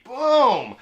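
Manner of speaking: high, punchy boom; booming impact. Retold or imitated. Storyteller voicing the truck's sudden arrival, booming. Mimics truck sliding in beside him.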